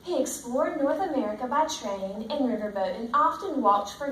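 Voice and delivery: steady storybook read-aloud to the class; reading to children. Acted. Teacher reading the book to her class, in a steady storybook voice. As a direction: read it out like a picture book for the kids.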